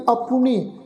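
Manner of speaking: ਆਪੁਨੀ with a clear u after p; sounded short u. Shown as a demonstration. Teacher points out the vowel mark, ਆਪੁਨੀ with audible u. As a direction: say the pu in ਆਪੁਨੀ as its own syllable. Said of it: "ਪੱਪੇ ਦੇ ਪੈਰ ਵਿੱਚ ਔਂਕੜ ਲੱਗੀ ਹੈ".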